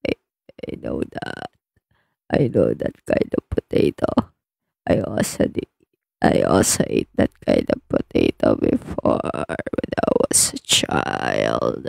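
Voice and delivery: unvoiced whispered aside; whispering a confession. Real, not acted. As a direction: drop to a secret whisper.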